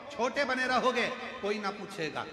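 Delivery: animated preaching. Real, not acted. Preaches to the congregation. (ऊँचे सुर में प्रवचन)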